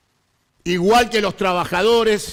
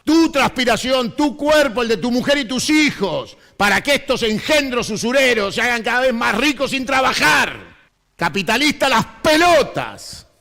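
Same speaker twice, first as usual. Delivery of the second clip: shouted harangue; 4 semitones higher than usual. Acted. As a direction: rail at them at full force. Impassioned political harangue.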